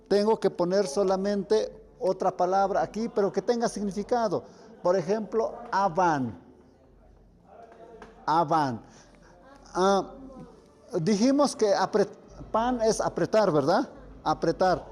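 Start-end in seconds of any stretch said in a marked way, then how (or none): 5.7-8.8 avan, with the p softened to a v sound; soft p like v. Shown as a demonstration. Teacher demonstrating avan with a soft p sound. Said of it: "La P va a sonar como v".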